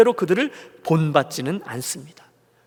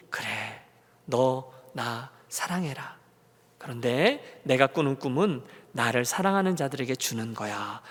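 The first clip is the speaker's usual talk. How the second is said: gentle voice of God; 5 semitones lower, 5 dB quieter than usual. Retold or imitated. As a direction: speak the promise tenderly. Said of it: "그랬더니 하나님이".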